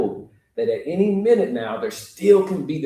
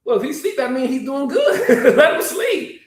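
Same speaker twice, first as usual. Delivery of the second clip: laughing dismissal; 13 semitones higher, 5 dB louder than usual. Acted. Disciples telling Jesus to let Lazarus sleep, laughing. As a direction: chuckle it away.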